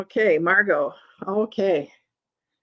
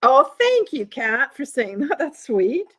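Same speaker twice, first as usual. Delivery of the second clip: delighted thanks; 4 semitones higher than usual. Real, not acted. Touched by a compliment.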